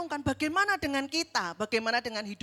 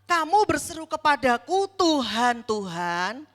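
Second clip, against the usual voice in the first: louder, stern rebuke from the pulpit; rebuking Jesus; 7 dB louder than usual. Acted. Preacher voices Jesus rebuking those who call him Lord, loud and stern.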